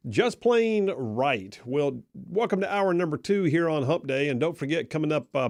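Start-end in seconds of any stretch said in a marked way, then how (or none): 0.1-1.6 slogan read. Retold or imitated. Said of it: "like the dude just said".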